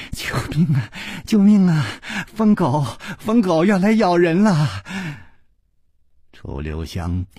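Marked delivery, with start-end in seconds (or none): 0.1-4.8 playful cry for help. Acted. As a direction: giggly fake alarm. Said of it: "轻轻地喊着".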